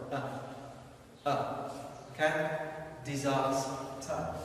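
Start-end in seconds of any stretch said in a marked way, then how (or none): 0.1-1.7 "a" said as a short, weak "uh"; schwa. Shown as a demonstration. Teacher demonstrating the schwa, "a" as "uh". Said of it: "schwa is the sound". 3.0-4.3 Disaster said slowly, "di-ZAHS-tuh"; demonstrated pronunciation. Shown as a demonstration. Teacher saying it like this, slow Disaster with long "ah". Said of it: "Okay, like this".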